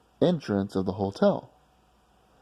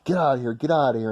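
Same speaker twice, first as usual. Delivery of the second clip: rapid repeated warning; 4 semitones higher, faster than usual. Retold or imitated. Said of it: "'cause he kept saying".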